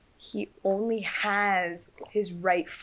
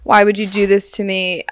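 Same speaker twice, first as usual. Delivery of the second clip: confused plea; 10 dB louder than usual. Retold or imitated. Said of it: "He was like".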